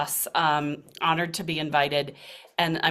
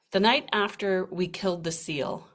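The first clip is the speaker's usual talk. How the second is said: hushed unvoiced narration; whispered story opening. A narrator's reading. Story reading.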